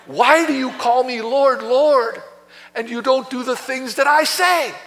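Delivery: mild frustration in the Savior's voice; exasperated, reproachful question; frustrated Savior. Acted. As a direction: plead with followers who will not obey. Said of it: "Can you hear the frustration".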